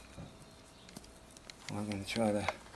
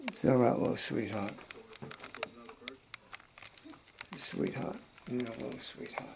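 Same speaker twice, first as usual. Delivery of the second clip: soothing a scared dog. Real, not acted.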